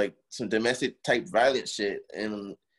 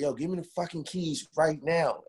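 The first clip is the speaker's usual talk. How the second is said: high, slow, insistent mock yell; raised voice, drawing out the demand; retold scream; 7 semitones higher, slower than usual. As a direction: re-enact yelling a demand, pitched up. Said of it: "I remember screaming".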